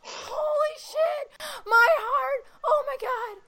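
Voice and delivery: very high, tearful shrieks; real fan losing control; overwhelmed screaming. Real, not acted. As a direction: cry out each phrase, overcome. Overjoyed fan at the win.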